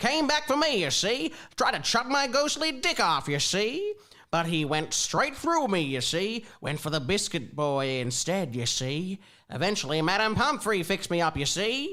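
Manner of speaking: put-on overdone old-timey American twang, laid on thick. Reading a story aloud as Ned: overdone old-timey American twang. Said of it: "You're doing too too much of a twang".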